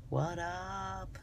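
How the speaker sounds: high, very soft drawn-out call; tiny, high singsong voice; playful greeting. Pretend. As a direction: stretch it out high and quiet. Playful soft answer to own shout.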